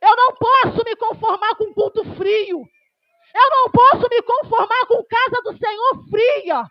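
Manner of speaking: loud, emphatic pulpit preaching; fiery preaching. Acted. Preacher rebuking a cold church, loud and emphatic. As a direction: preach it hard to the congregation. Pentecostal preacher at full force.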